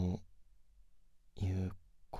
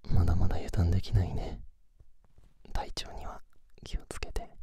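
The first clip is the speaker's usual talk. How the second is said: pillow talk; 5 dB louder than usual. Acted. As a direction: murmur intimately as if lying beside them. Sleep-together chat whispered throughout.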